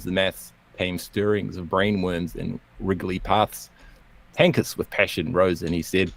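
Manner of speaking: theatrical, lilting comic verse; poem recital. Acted. Outro poem on an economists' feud, recited theatrically. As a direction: read it out with swinging pitch and measured rhythm.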